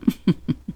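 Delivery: soft breathy waiter titter; a discreet polite chuckle; polite little laugh. Acted. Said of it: "ein höfliches kleines Kellnerlachen".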